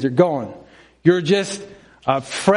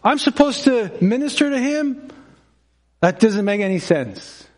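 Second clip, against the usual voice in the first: higher, faster protest; indignant Ananias; 5 semitones higher than usual. Pretend. Ananias objects to God about ministering to Paul, indignant. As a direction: argue with God in disbelief. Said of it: "He said".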